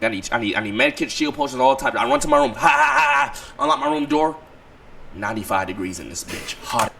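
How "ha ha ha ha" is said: short disbelieving laugh; nervous laugh. Real, not acted. Laughs after grim news.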